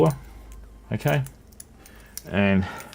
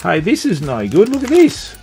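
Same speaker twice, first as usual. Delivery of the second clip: dismayed surprise; 8 semitones higher, 7 dB louder than usual. Real, not acted. Finds splits in bought rings.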